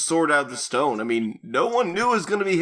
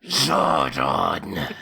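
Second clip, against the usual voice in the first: low, slow, clenched-teeth growl; through clenched teeth; 12 semitones lower than usual. Acted. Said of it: "he clenches his teeth and said".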